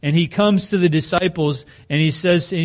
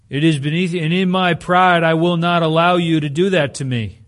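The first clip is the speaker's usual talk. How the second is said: proud outburst; 2 semitones higher, 3 dB louder than usual. Retold or imitated. Peter's proud refusal.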